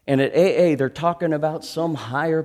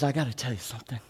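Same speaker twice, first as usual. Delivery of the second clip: hushed confession; 5 dB quieter, faster than usual. Retold or imitated. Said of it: "he says".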